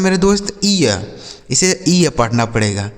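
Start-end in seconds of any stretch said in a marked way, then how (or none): 0.6-1.0 "ईय" as ee gliding into ya; EE-YA glide. Shown as a demonstration. Teacher answers own question to pupils, "ईय" with ee-ya glide. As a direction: say "ईय" as ee plus a short ya. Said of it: "इसका उच्चारण ईय हो जाता है".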